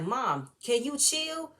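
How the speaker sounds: pleading call. Retold or imitated. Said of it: "be like".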